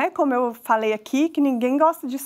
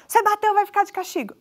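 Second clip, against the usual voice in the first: high, fast mock scolding; punishing parent; 8 semitones higher, faster than usual. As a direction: hand down the punishment in a rush, pitched up. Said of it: "de eu simplesmente punir". (bronca encenada, aguda e rápida)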